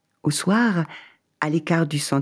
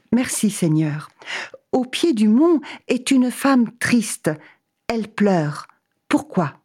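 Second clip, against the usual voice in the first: eager traveller; 6 semitones higher than usual. Acted. Man asks God.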